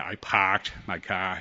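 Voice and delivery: Boston accent, no R in parked and car. Shown as a demonstration. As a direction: drop the R like a Bostonian. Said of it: "I gotta explain the Boston accent".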